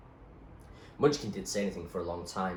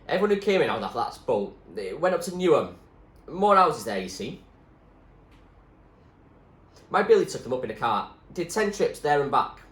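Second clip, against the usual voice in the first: put-on louder, homely old woman; older woman's voice; 7 semitones higher, 9 dB louder than usual. Rosie telling Zoe where the boat people went, louder homely voice. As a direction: chat like a kindly nurse.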